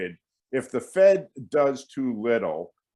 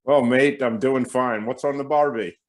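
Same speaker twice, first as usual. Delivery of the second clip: bad Aussie accent; mock Australian accent; 4 semitones higher, 4 dB louder than usual. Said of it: "confidently can say that he can't".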